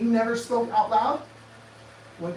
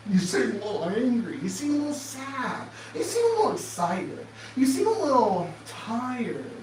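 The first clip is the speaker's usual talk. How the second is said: mock condescending adults. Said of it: "they sit around and they go".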